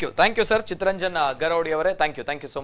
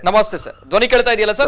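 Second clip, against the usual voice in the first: checking the line; 4 semitones higher, 6 dB louder than usual. Real, not acted. Checking a bad phone line.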